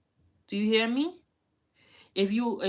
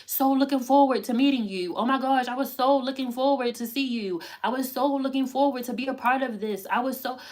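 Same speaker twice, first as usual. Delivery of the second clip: higher, fast, star-struck gushing; mildly hammed-up gushing admirer; gushing fan; 4 semitones higher, 3 dB louder than usual. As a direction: mimic an eager fan meeting you. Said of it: "when somebody's like".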